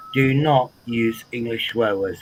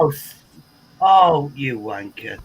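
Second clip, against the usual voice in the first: friendly swearing. Shown as a demonstration. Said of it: "it's the way you say the swear word".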